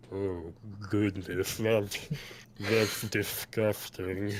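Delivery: slow, drawn-out distaste; Farguild. Acted. Farguild looks at the injured leg, slow disgust. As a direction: draw it out in an altered character timbre. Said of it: "Fargill goes".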